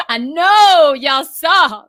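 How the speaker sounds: very slow, teary catch in the voice; fighting back happy tears; choked up. Real, not acted. Overcome watching inauguration moments.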